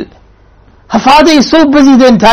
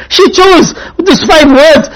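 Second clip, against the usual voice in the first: tearful, slow; 3 semitones higher, slower than usual. Real, not acted. Moved by Fatima's choice.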